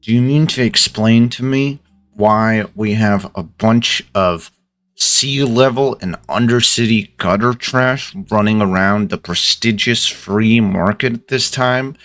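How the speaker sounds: restrained, mildly angry boss; controlled interrogation with gritted teeth; through gritted teeth. Acted. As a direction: keep the anger held in. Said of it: "talking through gritted teeth here".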